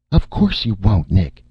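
high, loud urging; crying out. A narrator's reading. Erica urging Nick to refuse, crying out. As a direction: cry out to stop them giving in. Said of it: "Erica cried".

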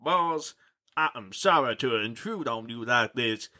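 a hint of a grave vampire dad telling his tale; lightly voiced dramatic father.

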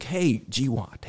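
mild, slow, easygoing greeting; gentle, casual debriefer. Retold or imitated. Instructor pulls pilot aside for debrief, gentle and casual. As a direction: lightly imitate a casual instructor easing in. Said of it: "real gentle, real casual".

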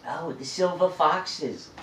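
mock cooing, slowed right down; mocking imitation. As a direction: draw it out, mimicking a gushing admirer. Mimics people who use annoying label.

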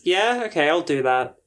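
uncertain, insincere yes; half-hearted, unconvinced going-along; reluctant agreement. Acted. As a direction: agree while clearly meaning no. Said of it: "in a voice that totally says".

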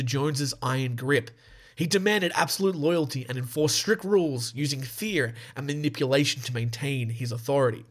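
measured documentary-style read; scripted narration. Real, not acted. Host reads the Jonestown story to listeners, scripted narration.

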